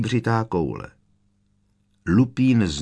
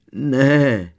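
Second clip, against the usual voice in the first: wailing; 5 semitones higher, 4 dB louder than usual. A narrator's reading. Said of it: "zakvílala paní Weasleyová".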